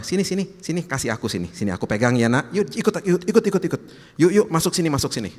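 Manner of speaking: eager fatherly invitation; coaxing. Acted. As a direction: beckon a child along in quick repeated nudges. Acted Jesus coaxing his child along.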